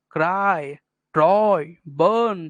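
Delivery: "क्राई", "ट्रॉय", "बर्न" each long and separately stressed; a full, weighty beat on "क्राई", "ट्रॉय" and "बर्न"; stressed syllables. Shown as a demonstration. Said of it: "मतलब stress". ("क्राई, ट्रॉय, बर्न" हर शब्द पर पूरा ज़ोर)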